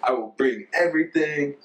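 high, emphatic promises in a put-on Ghanaian accent; imitated Ghanaian counterpart. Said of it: "He'd be like".

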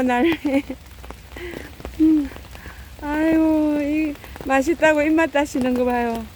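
high sing-song pet talk; cooing to pets. Real, not acted. Feeder praising the cats for eating, high cooing pet talk. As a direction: coo at the hungry cats like babies.

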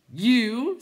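high, loud outburst; incredulous clowns. A narrator's reading. Clowns questioning Bastian, high loud disbelief. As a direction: cry it in disbelief.

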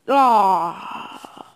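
long falling groan; frustrated groan. Real, not acted. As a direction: let out a drawn-out groan of defeat. Groans after losing the round.

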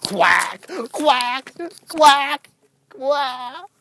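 lightly voiced mock quacks; duck imitation. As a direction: separate quacks, as if talking duck. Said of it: "I'll talk in your native language".

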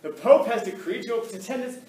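high, loud herald's proclamation; ceremonial voice. Shown as a demonstration. Teacher telling his class about Michelangelo, in a loud, high, ceremonial herald voice. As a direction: announce it like a royal court crier. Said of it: "well, I'll do a ceremonial voice".

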